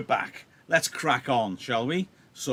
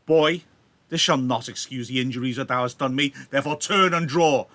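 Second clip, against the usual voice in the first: challenging Tybalt; 6 dB louder than usual. Acted. Tybalt challenging Romeo, reading.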